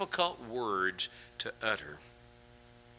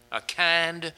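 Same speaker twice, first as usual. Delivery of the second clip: slow hushed whisper; a slow whisper of kind word; 3 semitones lower, much slower than usual. Acted. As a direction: breathe it out slowly, barely voiced. Soft reflective aside in sermon.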